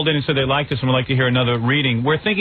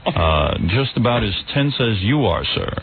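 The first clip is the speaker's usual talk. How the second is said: Peter Jennings. Acted. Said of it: "me as Peter Jennings".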